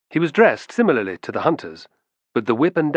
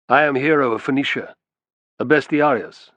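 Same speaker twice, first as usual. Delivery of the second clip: sonorous; 3 semitones higher, 3 dB louder than usual. Acted. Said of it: "in a sonorous tone".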